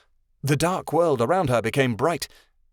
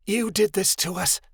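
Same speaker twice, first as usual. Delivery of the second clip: strained, croaking accusation; a dying dragon croaks out blame; croaked; 7 semitones higher than usual. A narrator's reading. Dying dragon croaks at Midnight Star. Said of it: "Zaya croaked".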